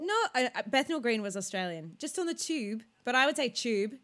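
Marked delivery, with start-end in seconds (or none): 2.0-2.8 slightly higher, very posh British accent; Katie Locker. Shown as a demonstration. Imitating a friend who speaks very posh. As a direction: say it in posh English. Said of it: "trying to do Katie Locker".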